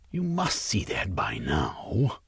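slow, breathy whisper. Acted. Rival pressed in a tense meeting, slow whisper. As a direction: hush it right down as a dare.

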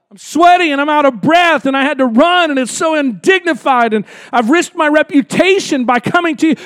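protesting nobleman. Retold or imitated. Nobleman protesting to Jesus after rushing twelve miles, a hint of indignant pleading. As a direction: push back at Jesus, hurried and indignant.

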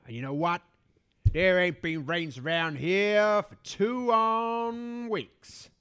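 grumpy cowboy farmer, low and gruff; drawling rural farmer, grumbling; old farmer voice. Acted. Plays old farmer figure.

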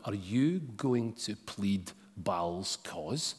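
measured Bible reading to the congregation; scripture reading. Acted. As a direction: read the passage with weight. Long scripture reading aloud.

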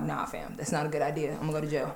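low, soft flat no; refusing another haunted house, low and soft; deadpan refusal. Retold or imitated. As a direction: quietly turn it down.

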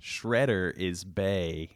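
slow, overdone reading of the comment. Acted. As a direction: ham up the comment on purpose. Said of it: "I'm overdoing it".

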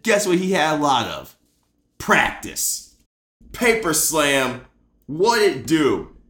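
rousing, emphatic podcast monologue; impassioned speech. Real, not acted. Host delivering his tribute to the player, impassioned. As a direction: build it up to a punchy sign-off. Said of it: "saying it so passionately".

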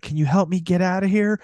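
slightly high mock victim voice; imitated pleading woman. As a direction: lightly play a captive asking for help. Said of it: "she's like".

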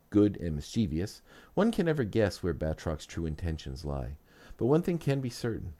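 muffled audio from a webcam mic. Real, not acted. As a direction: sound slightly muffled and distant. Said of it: "the audio in the first part of this episode is a little muffled".

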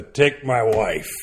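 put-on loud, drawn-out old-school punchline; lightly mock a hacky club comic's catchphrase; nineties stand-up comic. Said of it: "like, nineties stand-up comic".

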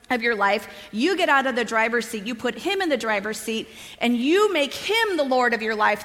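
retold sermon with emphatic key words; passionate preaching. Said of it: "preaching a message with all the passion in the world".

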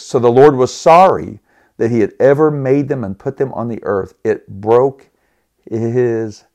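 slowing and fading on "his heart"; holding back tears on the last words; voice breaking. Real, not acted. Pastor reading the verse, voice breaking with emotion. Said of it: "I can't even read that without breaking".

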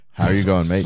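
mild mock-Australian greeting; attempted Australian accent. Shown as a demonstration. Co-host closing the show with a try, light Australian accent. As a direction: have a light go at sounding Australian. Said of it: "try to say a full sentence with an Australian accent".

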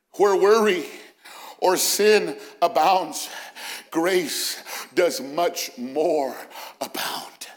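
slow, weighty pulpit cadence; solemn, drawn-out declaration; emphatic preaching. Real, not acted. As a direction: space out each phrase, dropping away on the last word.

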